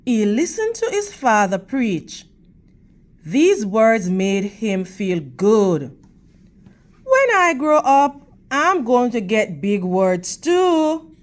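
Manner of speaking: expressive storybook reading for the class; teacher's read-aloud voice; reading to children. Acted. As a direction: read it to the kids, clear and gentle.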